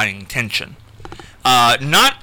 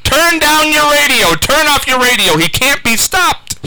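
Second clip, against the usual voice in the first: retold on-air plea; 12 semitones higher, 3 dB louder than usual. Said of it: "I'm saying".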